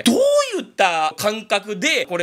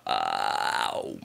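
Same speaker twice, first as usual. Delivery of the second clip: far lower, quiet ghostly croak; 7 dB quieter than usual. Shown as a demonstration. Showing viewers the Ju-On ghost sound, low croak. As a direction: rattle it out like a cursed ghost boy. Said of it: "これ呪音くん意識してれば".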